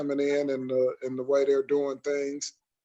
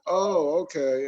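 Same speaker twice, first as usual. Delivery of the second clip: drawn-up "oh", then a level "okay"; mildly sarcastic retold acknowledgement; 2 semitones higher, slower than usual. Man answering the masked woman's excuse, mildly sarcastic. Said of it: "being sarcastic".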